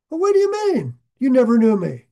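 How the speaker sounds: a high, then loud mock protest; acted indignant objection, jumping up in pitch; indignant disbelief. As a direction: act affronted and incredulous. Acts out the rejected person's protest.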